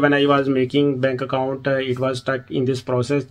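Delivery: very slow, halting broken English. Retold or imitated. Friend struggling to explain to bank clerk, slow halting English. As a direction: spell out the broken English slowly, word by word. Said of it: "bank वाले को भी ये कहना है".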